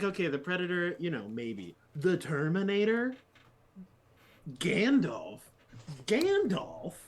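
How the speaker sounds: can't believe what you heard; incredulous. Retold or imitated. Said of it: "And I'm like".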